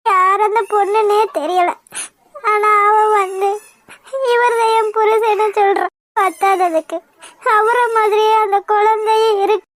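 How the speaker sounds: weep through the explanation; crying. Acted. Girl tells her friend about the woman, tearful.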